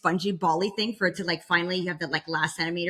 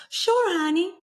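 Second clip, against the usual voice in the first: sweet mom; 11 semitones higher, 4 dB louder, slower than usual. Retold or imitated. Mom's reply voiced.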